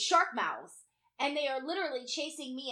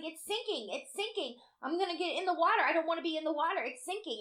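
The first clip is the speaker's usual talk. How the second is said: mildly panicked, hurried pleading; a touch of mock alarm, repeated urgently; retold panic; 4 semitones higher, faster than usual. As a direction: plead to be rescued, lightly re-enacted.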